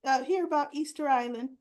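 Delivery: high, eager mom voice, far above her own; imitating eager mom. Mom begging her daughter for trip photos, high and eager. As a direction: play the mom pestering her daughter to finally share. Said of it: "So she goes".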